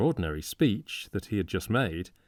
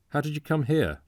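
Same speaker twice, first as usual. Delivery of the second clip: excited, passionate; 7 semitones higher than usual. A narrator's reading. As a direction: blurt it out eagerly. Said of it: "asked the stranger quickly, excitably, passionately".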